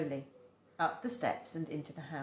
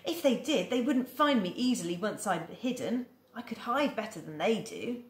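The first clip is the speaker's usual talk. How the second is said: brightened; 5 semitones higher, 3 dB louder than usual. Acted. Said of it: "She brightened".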